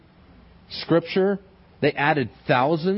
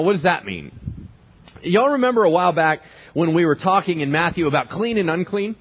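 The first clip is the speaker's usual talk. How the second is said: ordinary talk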